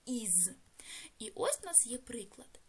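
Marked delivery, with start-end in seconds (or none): 0.1-0.5 «із» with a voiced z at the end; ending read as iz. Shown as a demonstration. Teacher showing pupils how the plural ending sounds, voiced iz. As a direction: say «із» as a short vowel plus buzzing z. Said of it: "яке читається як".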